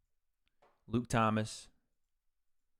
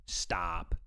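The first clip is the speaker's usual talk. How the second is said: whispered stop; 5 semitones lower than usual. Real, not acted. Reacting to streamer earnings.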